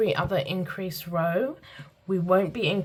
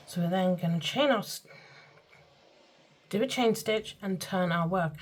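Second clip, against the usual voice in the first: muffled, slightly unclear words; faster than usual. Real, not acted. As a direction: speak a bit muffled, mouth half covered. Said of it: "my words seem to be a bit muffled this morning".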